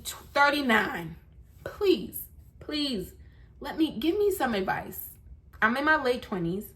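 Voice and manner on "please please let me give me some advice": mock pleading. Real, not acted.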